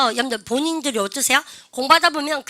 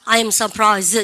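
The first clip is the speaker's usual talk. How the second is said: model reading; 2 semitones lower, 4 dB louder, much slower than usual. Shown as a demonstration. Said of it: "시작".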